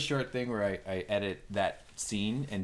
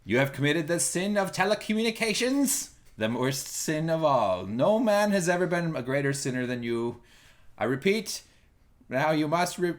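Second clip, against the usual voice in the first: mock pope sentencing; 3 semitones higher, 3 dB louder than usual. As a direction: pass absurd judgement with pompous gravity. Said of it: "I am now the Pope".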